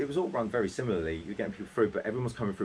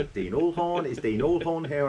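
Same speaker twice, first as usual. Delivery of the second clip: high-pitched mock roll call; retold calling out; 9 semitones higher, 4 dB louder than usual. Rep imitating the misspelt name called on the bus, high. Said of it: "calling out on the bus".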